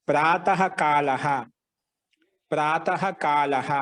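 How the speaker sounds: slow, measured ప్రాతః కాలః, each long vowel held; slow dictation. Shown as a demonstration. Teacher dictating new words to students, slowly. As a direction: draw out ప్రాతః కాలః syllable by syllable.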